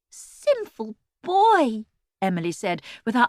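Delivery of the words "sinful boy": pious scolding. A narrator's reading.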